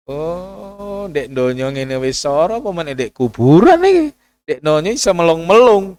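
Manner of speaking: high, loud pleading cry for help; pleading sick man. Retold or imitated. Preacher voices a sick man crying out to his son. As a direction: beg Jo for help in pain. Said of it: "akhirnya setiap kita mau ngelanggar mikir".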